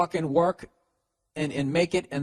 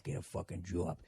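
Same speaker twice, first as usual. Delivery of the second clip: put-on low Boston-accented mutter; imitating someone muttering at their desk; 7 semitones lower, 13 dB quieter than usual. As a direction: mutter it to yourself, very softly. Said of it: "just muttering to yourself".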